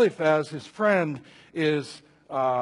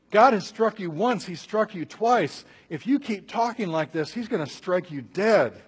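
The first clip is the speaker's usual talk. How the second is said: raised, emphatic warning to a friend; urgent warning; 4 semitones higher, 4 dB louder than usual. Acted. Job's friends warning him he keeps talking dangerously, urgent. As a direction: warn him with mounting force. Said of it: "They kept saying".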